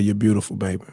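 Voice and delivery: low, tender words to a wife; imitating a calm, loving grandfather; calm endearment. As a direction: retell it gently, composed. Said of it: "And was calm".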